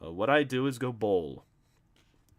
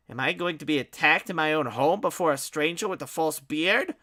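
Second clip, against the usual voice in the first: indignant Ignatius; 7 semitones higher, 9 dB louder than usual. Acted.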